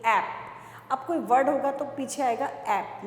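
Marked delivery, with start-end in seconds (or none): 0.1-0.9 ए पी ऐप said very slowly, each sound separate; slow spelled demo. Shown as a demonstration. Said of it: "उसका sound कैसा आएगा?". (ए पी ऐप बहुत धीरे-धीरे)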